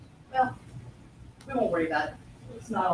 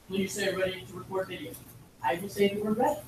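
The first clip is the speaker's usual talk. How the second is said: robot voice; 2 semitones lower, 5 dB quieter than usual. Retold or imitated. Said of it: "you're gonna hear this very mechanical voice".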